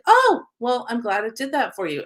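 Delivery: bright, high "Oh, well" lifting into polite thanks; pleasantly surprised. Retold or imitated. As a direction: sound pleasantly caught off guard. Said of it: "And I was like".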